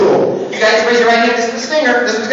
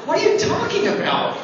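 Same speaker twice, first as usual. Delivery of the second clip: mock baffled; 6 semitones higher than usual. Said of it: "And you're gonna go".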